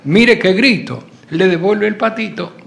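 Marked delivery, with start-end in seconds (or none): 0.0-1.0 put-on slow and louder, a kid's threat. Boy in the closet threatens to scream, loud and slow. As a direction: push each word out slowly and louder.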